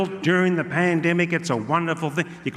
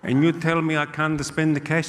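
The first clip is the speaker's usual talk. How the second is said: angry Italian uncle voice, kept low-key; Gino; 3 semitones lower, 3 dB quieter than usual. Acted. Uncle telling off the bottle shop man, indignant Italian accent. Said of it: "I got a very angry".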